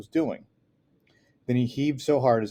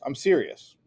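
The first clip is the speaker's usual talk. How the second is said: shouting; 4 semitones higher, 4 dB louder than usual. Acted. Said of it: "this time I shouted".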